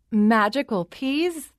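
high, slow incredulous echo of "Magical peas?"; taken-aback echo. Acted. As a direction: stall by repeating "Magical peas?" slowly. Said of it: "the queen repeated".

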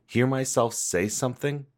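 soft, quick low-key read; quiet take. Shown as a demonstration. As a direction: hush it and rush the line. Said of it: "give me one more just for coverage".

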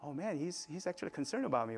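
mildly voiced inner relief; touched realisation. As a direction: think aloud softly, defences down. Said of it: "I was like".

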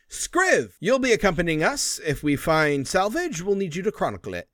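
captain calls the scribe across the deck; shouted order. Acted.

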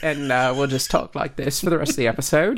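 a mock British accent, announcing it will stay; playful English accent. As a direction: keep the put-on English accent as a joke. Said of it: "in this dialect".

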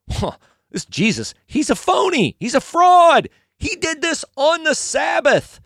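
high-pitched mock outrage; indignant accusers. Religious leaders accuse Jesus of breaking Sabbath rules, indignant. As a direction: denounce him like an offended rule-keeper. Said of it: "And they're like".

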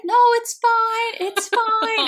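high, loud, drawn-out tearful protest; hammed-up weepy reassurance; mock bawling. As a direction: imitate insisting through sobs, loud and high. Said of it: "start crying and, like, bawling".

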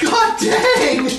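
loud, high exasperated yell; frustrated shout. Real, not acted. Second bad roll, big outburst.

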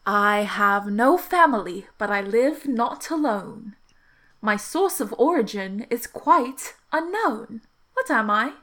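slow, measured riddle with lingering key words; riddle recital. Acted. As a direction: pose the riddle deliberately, word by word. Phineas poses a riddle.

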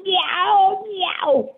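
a high, pretend cat meowing. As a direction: meow like a playful kitty. Child playing a cat.

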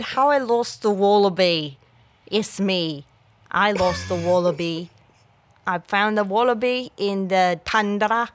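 wobbly mock Australian storytelling; amateur Australian impression; bad Australian accent. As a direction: tell the tale in a poorly faked Australian accent. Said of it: "I'm so bad at Australian accent".

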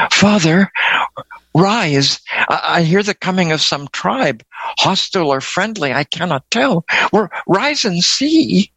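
high, hushed and urgent; frightened whisper. A narrator's reading. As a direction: whisper in fear to wake her father. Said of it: "whispered the young woman".

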